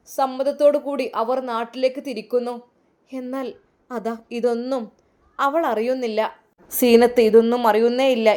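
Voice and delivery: storyteller voice, loud then settling; narrating what comes next; story narration. A narrator's reading. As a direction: close the scene with suspense. Narrator closing.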